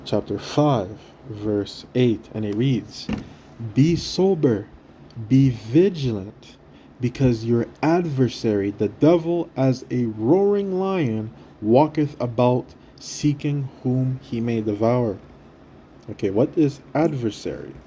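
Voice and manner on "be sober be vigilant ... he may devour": slow, solemn Bible reading; scripture reading. Acted. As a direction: read each phrase slow and weighty. Reads scripture slowly.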